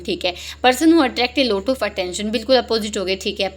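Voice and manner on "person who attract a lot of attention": slow reading. Shown as a demonstration. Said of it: "reading options slowly".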